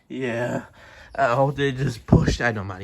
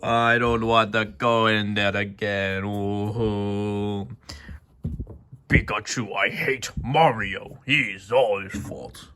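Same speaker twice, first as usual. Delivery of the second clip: slow, lower moaning complaint; miserable sulk; 5 semitones lower, slower than usual. Acted. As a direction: drag it out, sorry for yourself. Dazed character sulks after ride.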